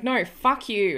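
put-on anger, slowed way down. Retelling a woman snapping back after a man tells her to calm down: retelling an angry retort. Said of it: "angry retort after being told calm down".

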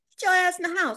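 mock very high, loud mother's yell. Retelling a mom calling kids inside from the door: imitating a mother yelling. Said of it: "your mama was yelling out the door".

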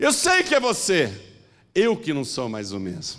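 man's loud, swooping holler. Retelling a man running from a woman calling after him, imitating a man shouting. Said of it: "Aí ele gritou".

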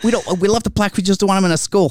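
mock Boston accent. Mocking old Southie people from documentaries, imitating 70s Boston accent. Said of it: "they've got like a 70s Boston accent".

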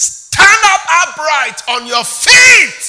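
high, very loud, full-throated preaching scream. Telling how Paul healed a man who had faith; retelling a loud scream. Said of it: "Paul screamed with a loud voice, like I'm doing right now".

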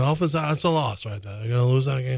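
put-on New York sports-radio host voice. Going through game picks, the speaker calls one in Mike Francesa's voice. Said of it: "If you want to do it in Mike Francesa's voice".

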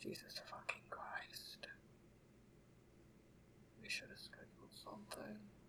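whispered, hushed grumbling mutter under breath. A role-player voices her character sitting near the crowd after a speech, muttering. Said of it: "kind of mutters".

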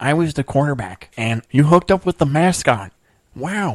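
put-on laid-back drawl. Quoting a film character for the other speaker: Owen Wilson impression. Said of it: "you should do all impressions".

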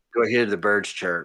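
plain

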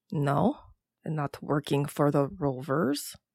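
slow, contemptuous, dripping with heavy disdain. Answering a question in character, denying working for the rovers: great disdain. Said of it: "I say it with, with a great deal of disdain".

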